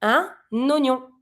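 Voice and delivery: slow "Un oignon" with the N carried over; drawn-out liaison in "Un oignon"; linked N. Shown as a demonstration. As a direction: link "Un oignon" as un-nonyon. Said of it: "We link".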